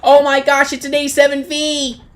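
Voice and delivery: loud, amazed outburst; startled delight, full volume; excited surprise. Real, not acted. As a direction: exclaim it like an astonished discovery. Excited surprise at spotting tank.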